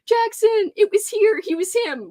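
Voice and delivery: high, rushed reading that trips over the words; fumbled speed read. Real, not acted. Reading a viewer's comment aloud, rushing and fumbling. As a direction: rattle it off too fast and stumble. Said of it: "Oh, I can't speak".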